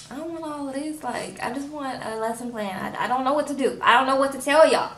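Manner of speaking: a hint of a flustered, overwhelmed boy; Michael venting to the cult in mock exasperation; mock frustration. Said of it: "He's frustrated".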